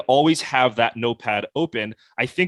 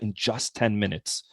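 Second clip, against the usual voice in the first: "in just ten minutes" slowed for emphasis; slow down each word of "in just ten minutes"; slowed-down key words; 2 semitones lower, 5 dB quieter than usual. Shown as a demonstration. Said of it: "I slow down the words".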